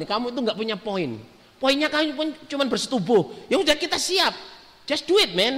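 high-pitched, worked-up mock anger; retold anger. Woman angrily telling him he has no point, retold in mock anger. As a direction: imitate an exasperated woman, pitched well up. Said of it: "waktu itu marah dia gini".

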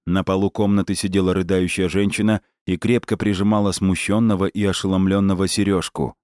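ordinary delivery, nothing marked

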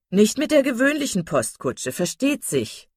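high, loud, self-satisfied boast; proud smugness. A narrator's reading. Miss Steele boasting to Mrs Jennings, smug and proud. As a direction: preen about travelling in style. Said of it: "in stolzer Selbstgefälligkeit".

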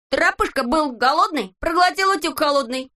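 high, sing-song poem reading; silly recitation. A narrator's reading. Neznaika recites his poem to the friends, sing-song.

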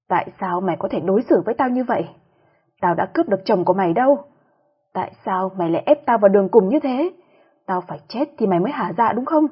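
a swollen-eyed mistress yelling at the wife; screaming accusation. Acted. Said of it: "nó đã gào thét". (gào thét giận dữ nhẹ)

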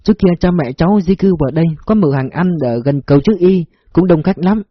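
polite servant telling her story; humble woman voice. Acted. Phúc tells her past.

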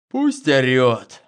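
slow drowsy murmur; nodding off. A narrator's reading. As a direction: say it half asleep, slowly. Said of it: "так же дремотно проговорил я".

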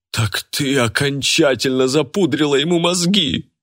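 high, accusing outcry; sudden yell. A narrator's reading. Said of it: "завопила вдруг Лика". (обвиняющий вопль)

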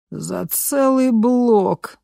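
стон; groaned. A narrator's reading. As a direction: moan it in dismay. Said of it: "простонал Маше".

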